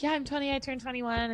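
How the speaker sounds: high, giddy mock cheer; excited about birthdays. Daughter mimicking her thrilled younger self on birthdays, high and giddy. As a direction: gush it like a proud birthday kid. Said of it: "you're like".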